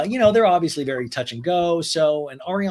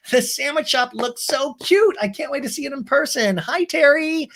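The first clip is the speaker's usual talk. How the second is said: much higher, squealy voice; bubbly Sheena impression; 11 semitones higher, 4 dB louder than usual. Sheena greets friends on FaceTime, high bubbly squeal.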